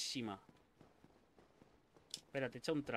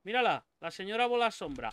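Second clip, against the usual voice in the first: excited shout; 6 semitones higher, 6 dB louder than usual. Real, not acted. Shouting at a boss.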